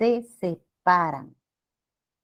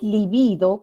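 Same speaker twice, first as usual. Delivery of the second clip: libido stressed on the middle syllable; grave stress; 3 dB louder, slower than usual. Shown as a demonstration. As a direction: lean on the BI in libido. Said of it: "con acentuación grave".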